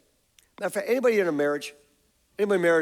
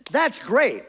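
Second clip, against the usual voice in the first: delighted; 7 semitones higher, 4 dB louder than usual. Retold or imitated. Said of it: "I went".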